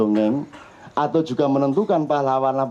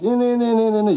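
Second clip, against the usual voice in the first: mild mock loud reading; 4 semitones higher, much faster than usual. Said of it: "dibaca keras-keras".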